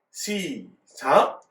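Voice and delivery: stretched count-in ending on a rise; drawn-out start cue. Real, not acted. Preacher cueing children to read together, drawn-out cue. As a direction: draw it out to cue everyone in.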